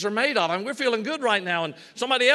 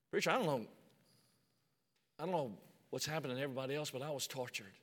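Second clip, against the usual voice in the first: shaking voice; 9 semitones lower, 14 dB quieter, much faster than usual. Retold or imitated. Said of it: "his voice is shaking a little bit".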